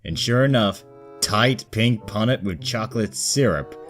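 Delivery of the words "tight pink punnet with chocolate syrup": ordinary delivery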